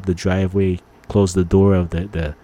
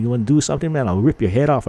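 mock angry threat, higher; retold snapping; 4 semitones higher, faster than usual. Moviegoer threatening a rude stranger, half-hearted retold snapping. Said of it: "I was just snapping at him".

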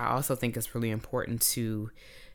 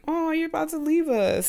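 mock sad whine; 3 dB louder than usual. Mother voicing sad goodbye feeling.

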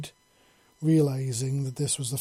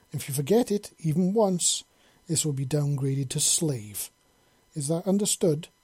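stern mistress laying down rules; commanding. Acted. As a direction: give orders like a strict noblewoman. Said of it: "she said in a commanding tone".

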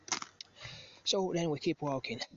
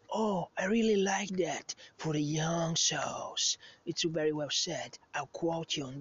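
put-on impressed girl; 4 semitones higher, slower than usual. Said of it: "And she's like".

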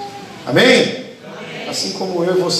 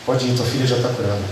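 quiet, simple release; 5 semitones lower, 6 dB quieter than usual. Acted. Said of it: "ele só fala pra ela assim".

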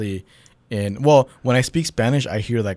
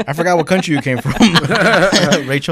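laughing through the words, then a burst of laughter; sheepish laughing admission; 7 semitones higher, 7 dB louder than usual. Real, not acted. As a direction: laugh it out, embarrassed.

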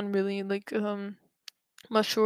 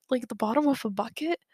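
incredulous whisper. Real, not acted. Incredulous aside about the bucket.

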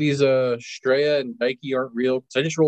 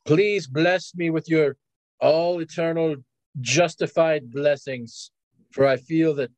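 lightly acted plea for divine blessing; solemn prayer; slower than usual. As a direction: pray grandly, drawing the phrases out. Player voices prayer to goddess.

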